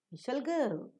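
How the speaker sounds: "we shall go" starting high, "go" dropping; fall on go. Shown as a demonstration. Teacher completes the example, falling on "go". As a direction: bring "go" down to close. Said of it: "you fall down".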